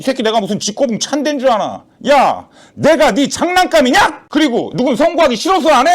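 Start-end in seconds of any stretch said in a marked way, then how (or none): 2.1-5.9 high, heated self-defence; exasperated outburst. Acted. Judge telling the caller the votes are not there, exasperated.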